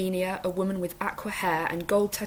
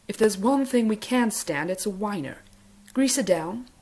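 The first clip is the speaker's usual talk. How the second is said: higher, louder Capitol voice with sniffy disdain; lightly voiced Capitol stylist giving orders; prissy Capitol accent; fussy Capitol accent; 3 semitones higher, 4 dB louder than usual. A narrator's reading. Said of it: "such a high pitch".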